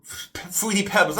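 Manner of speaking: halting words from a brain freeze. Real, not acted. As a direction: wince through a cold ache. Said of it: "I'm getting a brain freeze here".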